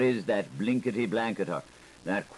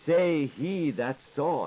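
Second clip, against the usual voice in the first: high slow emphasis; 5 semitones higher, slower than usual. Acted. Phrase said twice, varied.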